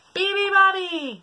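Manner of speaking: slow, loud yell. Acted. Hippos wake the bird, loud. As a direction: yell it long. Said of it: "yelled the hippos".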